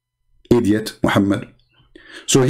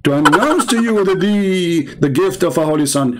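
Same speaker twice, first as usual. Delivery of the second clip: quoting the angel; 6 semitones higher than usual. Retold or imitated. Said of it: "He said".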